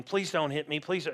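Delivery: softly voiced mock-frightened child; small, quiet acted plea; pleading child. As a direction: lightly imitate a kid begging to be spared. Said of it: "your kids came and started going".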